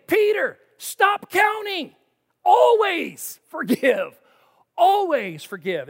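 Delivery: high, loud and slow, pleading; urgent loud plea. Acted. Preacher voicing Jesus to Peter, loud and urgent. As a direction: press it home, stop counting.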